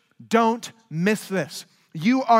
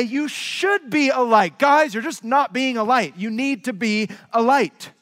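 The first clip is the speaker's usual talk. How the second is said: mock scolding; 3 semitones higher than usual. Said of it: "Nor does he say".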